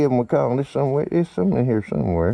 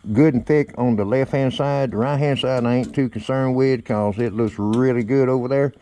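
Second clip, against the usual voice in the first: muffled under a helmet; talking inside a welding helmet. Real, not acted. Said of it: "every time I put the helmet on".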